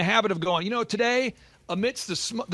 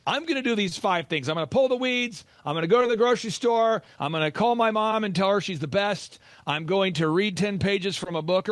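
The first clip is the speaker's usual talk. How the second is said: determined pledge. Pretend. Listener vowing daily tasks, firm and eager. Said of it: "where you say".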